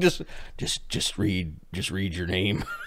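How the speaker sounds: soft, hushed, weary, exasperated pleading tone. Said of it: "Old Whitey's just shaking his head, like".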